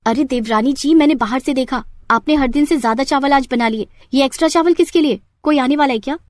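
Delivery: lightly voiced snooping jethani; nosy sister-in-law. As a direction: needle her with suspicious questions.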